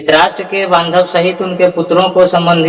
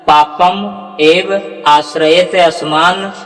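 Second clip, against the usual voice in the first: slow measured chant; slow recitation; slower than usual. Shown as a demonstration. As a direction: recite the full line slowly, word by word. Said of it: "उच्चारण आपका शुद्ध होगा".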